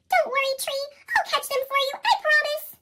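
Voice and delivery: put-on high, eager young animal voice; eager little Fletcher. Fletcher promising the tree he'll catch its leaves, high and eager. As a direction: promise the tree, bright and keen.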